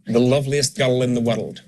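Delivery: put-on Scottish, with "girl" and "world" in two syllables; Scottish accent. Shown as a demonstration. Coach demonstrating the extra syllable, Scottish accent. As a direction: give it a general Scottish accent. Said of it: "you'll have an extra syllable on the word".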